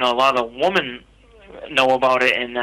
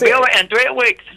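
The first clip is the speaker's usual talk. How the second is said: high mock British accent, laughing; 10 semitones higher, 4 dB louder than usual. The speaker obliging the host with a hammed-up British accent. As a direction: ham up a cheery British voice. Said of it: "I hear you do a fantastic British accent".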